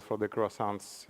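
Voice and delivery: slow attempt at a French accent; terrible French accent. Real, not acted. Speaker naming the French movement for degrowth, clumsy French accent. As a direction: say the French term haltingly, in an imperfect French accent. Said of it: "apologies for my terrible French accent".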